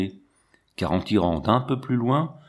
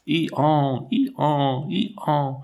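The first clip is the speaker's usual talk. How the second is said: higher, bellowing donkey "Ihan" at full force; powerful donkey bray; 4 semitones higher, much slower than usual. A narrator's reading. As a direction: bray it out like a donkey with all its might. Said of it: "une puissante voix d'âne qui criait".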